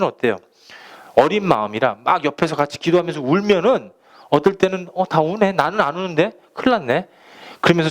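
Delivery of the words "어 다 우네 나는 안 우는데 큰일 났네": put-on worried child. Child panicking at not crying.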